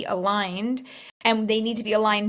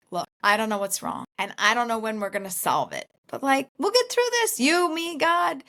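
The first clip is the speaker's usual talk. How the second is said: husband reassuring her; 5 semitones higher than usual. Retold or imitated. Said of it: "And he's like".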